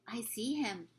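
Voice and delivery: put-on a scared little girl's hushed reply; frightened whisper. A narrator's reading. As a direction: whisper back, quivering with fear. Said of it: "Sophie whispered back, quivering".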